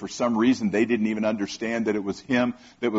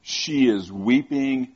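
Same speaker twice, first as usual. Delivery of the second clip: tender slow preaching; slower than usual. Real, not acted. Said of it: "tender sermon climax".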